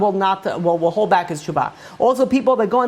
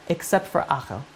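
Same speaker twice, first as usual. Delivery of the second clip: ominous hush; 2 semitones lower, 7 dB quieter than usual. Retold or imitated. Heavenly voice adds the exception.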